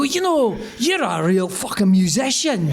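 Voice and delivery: lightly imitated Scottish brogue; Scottish accent. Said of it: "really thick Scottish accents".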